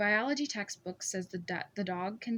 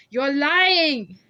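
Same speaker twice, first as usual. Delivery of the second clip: much louder, higher raging yell; furious shout; 6 semitones higher, 15 dB louder than usual. A narrator's reading. Scarred man screams that she is lying, furious. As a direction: explode at her.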